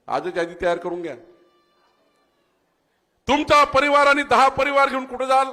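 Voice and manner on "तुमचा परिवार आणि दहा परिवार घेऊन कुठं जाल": raised and loud, calling out to the crowd; rally shout. Real, not acted. Politician quizzes the rally crowd, loud call. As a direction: fire the question at the whole ground.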